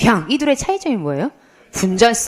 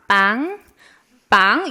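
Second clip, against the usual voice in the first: car honk imitation; 2 semitones lower, much slower than usual. Teacher acting a car coming at her, honk imitation. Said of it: "이런 차는 없잖아요".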